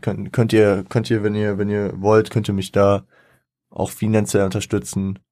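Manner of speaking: normal talking voice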